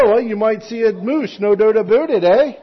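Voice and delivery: put-on Canadian accent. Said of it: "If you're from Canada".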